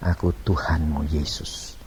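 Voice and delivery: low, soft, solemn answer; calm divine voice. Retold or imitated. Jesus names himself to the person, low and calm. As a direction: drop deep and quiet.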